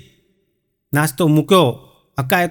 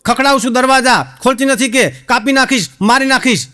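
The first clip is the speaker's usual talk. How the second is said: higher, blustering threats at the door; copied mock yell; 5 semitones higher than usual. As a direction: Hako trying to act tough. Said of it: "હક્કો તો મંડ્યો".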